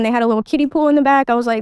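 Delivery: ordinary talk, nothing marked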